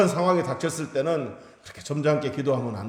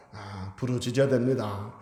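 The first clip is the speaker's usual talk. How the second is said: ordinary delivery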